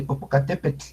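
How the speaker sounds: Popocatépetl with a gentle, barely voiced tl; soft final L. Shown as a demonstration. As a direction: let the tl of Popocatépetl fade out softly. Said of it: "Suavecita esa L".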